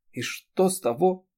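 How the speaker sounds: high, slow bitter challenge; slow, bitter, rising; bitter question. A narrator's reading. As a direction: ask it bitterly. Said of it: "горько спросила Эри".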